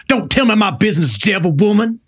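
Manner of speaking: a hint of a cranky old man snapping at his wife; lightly voiced grouchy old man; old man impression. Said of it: "this is the old man from Billy Madison".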